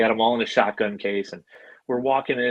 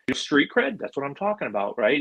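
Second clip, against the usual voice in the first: lightly imitated movie star, higher pitched; Vince Vaughn; 4 semitones higher than usual. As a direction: riff like a film comedian sizing someone up. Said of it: "just like he is in the movies".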